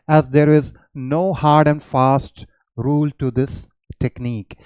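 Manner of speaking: slow, deliberate dictation of a note; reading notes aloud. Shown as a demonstration. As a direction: read it out word by word for students. Reads note aloud slowly. (धीरे-धीरे note पढ़कर सुनाना)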